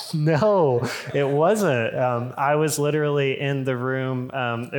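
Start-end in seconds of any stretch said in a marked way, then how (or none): 0.1-1.9 mock-exasperated denial; comic, insistent disbelief; emphatic contradiction. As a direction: retell a flat-out objection, a touch raised. Retelling his protest to wife.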